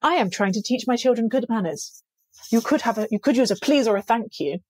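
retold snarky reproach. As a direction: imitate a prim telling-off of a stranger. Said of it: "I was so snarky".

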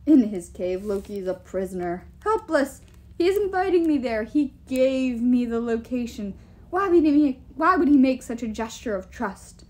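emphatic giant, rising in pitch; scoffing giant king. Acted. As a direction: argue loudly as an overconfident king.

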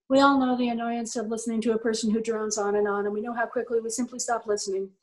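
flat drone, no inflection; droning monotone. Shown as a demonstration. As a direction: drone on without any melody. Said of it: "That's really terrible. I shouldn't talk to you like that".

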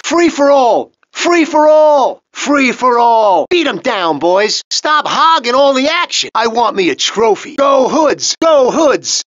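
loud, high battle cry; rallying shout. Acted. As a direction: whip the gang into a frenzy. Gang rallying during brawl.

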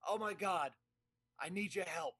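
put-on high, urgent cranky old man; Max voice. Actor begging for a keyboard, high and urgent. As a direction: pitch up and press, panicked. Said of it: "do the Max voice for all this".

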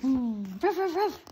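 loud barking roar; hammed-up loud barks; dog roaring. A narrator's reading. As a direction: bark loud like a fierce dog. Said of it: "roared Sam".

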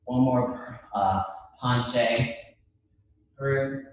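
breathless between counts; puffing while she talks; out of breath. Real, not acted. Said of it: "I'm catching my breath".

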